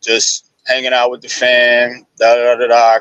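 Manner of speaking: low, flat, uninterested voice; low nonchalant monotone. Retold or imitated. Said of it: "kinda like in a low, kinda nonchalant, monotone voice".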